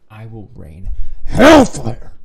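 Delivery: slow threat exploding into a yell; mock threat. Warning everyone to take care of themselves, mock threatening yell. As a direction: blast out a hammed-up threat. Threat to listeners who don't eat.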